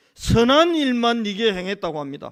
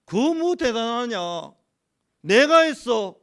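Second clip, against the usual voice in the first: slow, emphatic retelling of God's words; 하나님 말씀 흉내; 4 dB louder, slower than usual. Retold or imitated. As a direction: voice God's dismissive challenge, drawn out. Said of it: "하나님이 제 마음에". (하나님이 느리게 타이르듯 힘주어)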